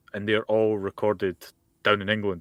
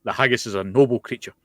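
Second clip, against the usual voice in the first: louder, hammed-up Scottish outrage; lightly voiced indignant Scot; angry Scotsman; 4 dB louder than usual. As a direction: defend the haggis's honour in mock fury. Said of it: "Just played up the angry Scotsman part".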